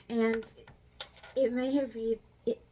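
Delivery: dry-mouthed, sticky speech; talking with a dry mouth. Real, not acted. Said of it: "sorry, I got dry mouth".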